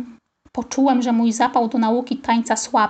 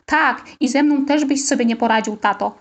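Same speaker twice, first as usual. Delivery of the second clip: playful. Acted. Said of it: "powiedziałem figlarnie".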